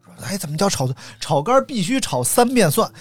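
ordinary delivery

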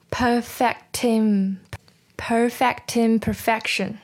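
perfect im- run together, the t carried into im; linked sounds. Shown as a demonstration. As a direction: join perfect to imperfection without a gap. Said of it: "这里有个连音要注意啊".

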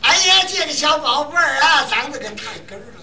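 put-on loud, high Tianjin dialect cooing over a baby; Tianjin accent. 相声演员学天津口音夸小孩儿，高声. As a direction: gush over the little one in broad Tianjin speech. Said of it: "说就这个".

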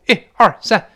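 punchy parade-ground numbering; military count-off. Acted. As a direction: count off like recruits in training. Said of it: "就像军训报数".

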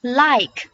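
"Like" with the final k held back; "Like" ending on a silent k; unreleased final k. Shown as a demonstration. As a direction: stop "Like" without releasing the k. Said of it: "不用发音。".

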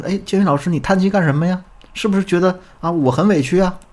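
high-pitched imitation of a puzzled student; questioning student. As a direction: ask in a lifted, acted voice. Acted student questioning the teacher's sigh. (模仿学员高声疑惑地追问)

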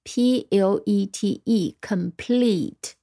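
letters of "complete" spelled out slowly, then the whole word; slow spelling. Shown as a demonstration. Teacher spelling along with students, slowly. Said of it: "我们连起来拼一遍".

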